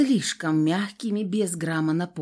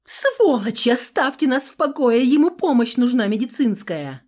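angry yell; 5 semitones higher, 6 dB louder than usual. A narrator's reading. Heroine yells at thugs.

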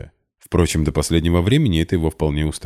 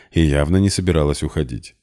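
ordinary delivery, nothing marked

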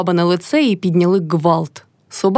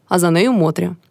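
usual speaking voice

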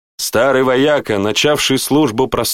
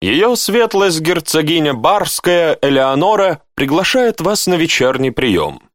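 high, measured ceremonial announcement; herald's proclamation; 7 semitones higher than usual. A narrator's reading. Herald delivering the duchess's invitation, in a high proclaiming voice. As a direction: announce it grandly, slowly at first, then settling.

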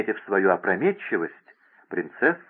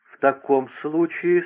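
медленно и выше, с легкой одышкой; говори прерывисто, как на быстром ходу; прерывающийся голос; 6 semitones higher than usual. A narrator's reading. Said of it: "сказала принцесса прерывающимся голосом". (прерывающимся от быстрой ходьбы голосом)

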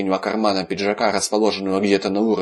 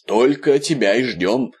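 slow, higher, cranky theatrical complaint; grumpy drama; 3 semitones higher than usual. Acted. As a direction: whine it like a sulky old diva. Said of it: "со сварливым драматизмом в голосе".

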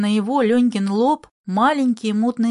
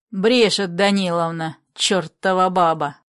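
thundering irritated voice; 3 semitones lower than usual. Acted. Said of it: "громыхнул кто-то ... густым и раздражённым голосом".

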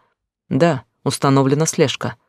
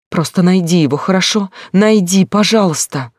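hysterical begging; 5 semitones higher, 4 dB louder than usual. Acted.

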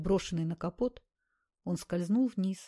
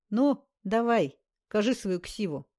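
издевательское требование; 2 semitones higher, 4 dB louder, slower than usual. Acted. Бандит издевательски требует.

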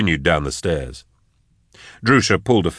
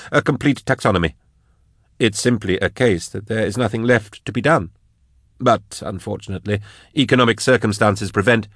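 lightly voiced scholar, higher and hesitant; higher-pitched, mildly defensive academic; 4 semitones higher than usual. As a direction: explain yourself, a little taken aback. Narrator voices Drusha explaining himself.

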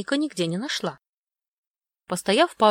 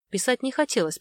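plain reading voice

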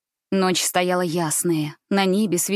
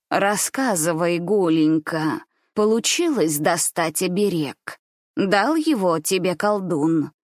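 grandmother's voice; 2 semitones lower, slower than usual. Acted. Grandmother slowly questioning her granddaughter, probing. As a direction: draw the questions out like a wary grandma.

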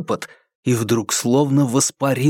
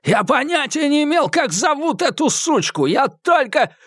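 high, frantic thug voice, voiced well up; a beaten man blurting desperate excuses; frightened high-pitched captive; Eddie, panicked; 13 semitones higher than usual. A narrator's reading. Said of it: "харкая кровью".

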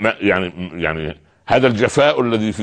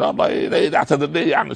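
mock indignant husband, higher and fast; proud refusal; 8 semitones higher, faster than usual. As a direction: act out a proud man scoffing at apologizing. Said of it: "يقول". (تقليد ساخر لزوج متكبر يرفض الاعتذار بسرعة وبصوت أعلى)

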